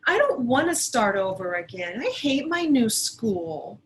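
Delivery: put-on a kid refusing at full volume; hammed-up sulky girl; upset child. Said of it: "Sarah said".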